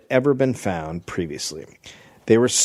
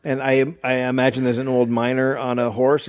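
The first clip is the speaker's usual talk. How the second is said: usual speaking voice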